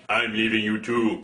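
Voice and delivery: very deep mock giant voice; imitated giant blue man. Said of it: "giant naked blue man is all like".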